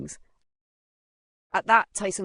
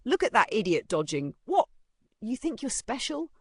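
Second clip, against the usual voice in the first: higher, jeering challenge; bully's taunt; 7 semitones higher, 3 dB louder than usual. Acted. Bully mocks the boy for dodging, jeering. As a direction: taunt him like a school bully.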